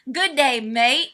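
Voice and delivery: put-on half-hearted Australian accent; attempted Australian accent. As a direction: try a rough Aussie greeting. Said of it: "I'm not good at ... accents".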